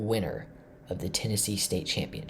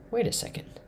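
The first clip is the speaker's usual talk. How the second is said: whispered realization; 13 semitones higher than usual. Real, not acted. Spotting a winning chess line.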